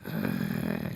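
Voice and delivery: low drawn-out groan; group's groan. Retold or imitated. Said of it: "the group was going".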